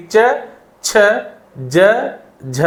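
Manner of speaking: च, छ, ज, झ one at a time with tongue forward; tongue-forward consonants. Shown as a demonstration. Teacher showing tongue placement, separate forward च, छ, ज, झ. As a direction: isolate च, छ, ज, झ, each a short syllable. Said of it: "जीभ आगे लगेगी".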